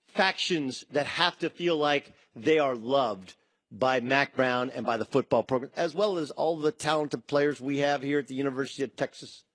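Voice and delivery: a hint of folksy Texas coach; Mac Brown impression. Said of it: "No, that's a Mac Brown, uh, imitation".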